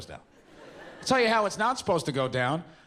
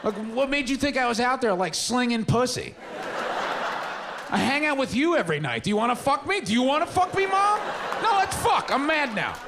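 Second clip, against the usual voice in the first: higher and higher furious rant; mock rant; 9 semitones higher than usual. Son rants at mom over condom gift, rising to a shriek. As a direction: build to an outraged shriek. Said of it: "I just wanted to be like".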